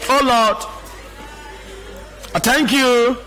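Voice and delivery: imitating someone praying without feeling; uninvolved, going-through-the-motions praying; unemotional prayer. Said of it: "they don't vibrate in prayer".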